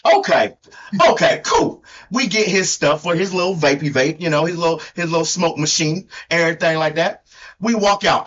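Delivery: put-on country accent; storyteller with a mock country twang; Hee Haw Tony. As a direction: imitate your co-host's hillbilly accent. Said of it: "has to sound like me".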